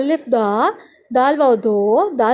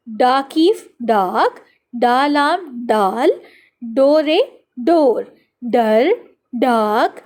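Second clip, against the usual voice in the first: put-on slow, stretched-out syllables for young learners; teacher's measured read-along chant; spelling drill; much slower than usual. Shown as a demonstration. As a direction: sound out each letter, then draw out the blended word. Reading drill for children.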